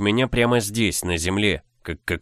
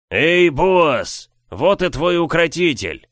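guffawing; 8 semitones higher, 5 dB louder, slower than usual. Acted. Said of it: "захохотал Трокса".

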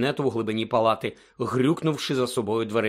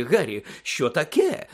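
flustered; 3 semitones higher, slower than usual. A narrator's reading. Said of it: "розхвилювався Фадж".

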